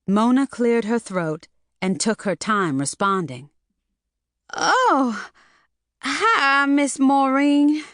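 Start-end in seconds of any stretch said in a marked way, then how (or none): 4.6-7.8 high, slow, frightened squeak; a nervous girl caught out, squeaking; scared squeaky voice. A narrator's reading. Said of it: "in a scared, squeaky voice".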